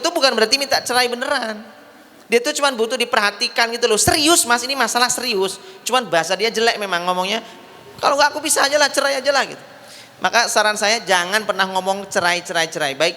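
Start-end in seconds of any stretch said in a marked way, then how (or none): 3.9-5.6 high, pleading mock wife; whiny wife voice. Wife insisting to husband. 8.0-9.5 high, pleading mock wife; whiny wife voice. Wife threatening to leave.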